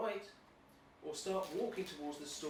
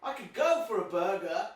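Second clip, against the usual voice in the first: hammy stage actor; 6 dB louder than usual. Acted. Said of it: "You do".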